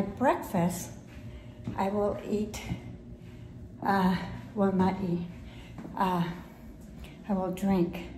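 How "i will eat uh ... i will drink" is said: breathless, pausing to breathe; out of breath. Real, not acted. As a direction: talk while catching your breath. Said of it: "I'm out of breath".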